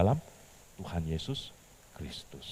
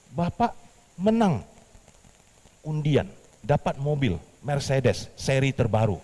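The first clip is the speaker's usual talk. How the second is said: higher, louder salesman pitch; smooth sales caller; 7 semitones higher, 4 dB louder than usual. Acted. The bank caller telling Petrus he won a car, in a salesman's pitch.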